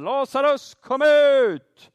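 high, loud shout of a name across a grave; loud calling out. Retold or imitated. Preacher voicing Jesus calling Lazarus from the grave, loud high call. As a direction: call him out of the tomb at full voice. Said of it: "och så ropar han".

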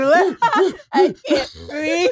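mock crying. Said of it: "you can't breathe".

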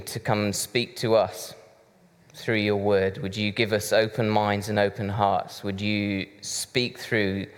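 prayer. Acted. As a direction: pray it gently and reverently. Leads the congregation in prayer.

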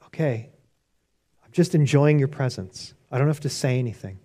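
just rest and enjoy being there; quiet content prayer. Retold or imitated.

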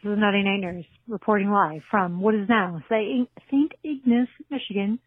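put-on British accent as a joke reporter; half-hearted British reporter voice. Caller voicing a report from Michigan in a British accent. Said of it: "Don't know why I did a British accent".

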